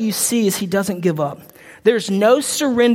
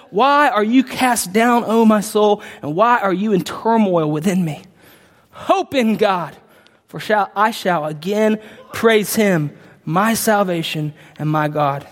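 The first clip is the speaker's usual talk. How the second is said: deliberate recital that settles into a low close; solemn scripture reading; 3 semitones lower than usual. Acted. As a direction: read it weightily, letting each phrase land.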